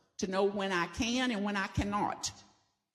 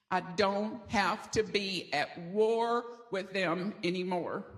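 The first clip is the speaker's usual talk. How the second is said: slow group recital; slower than usual. Shown as a demonstration. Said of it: "Would you say it with me?".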